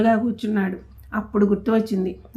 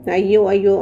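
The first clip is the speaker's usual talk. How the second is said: wailing; 6 dB louder than usual. Acted. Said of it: "లబలబలాడి".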